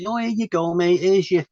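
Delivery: a hint of an overly nice welcoming squaddie; mock welcome. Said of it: "you're probably gonna get bedded in, like, nice".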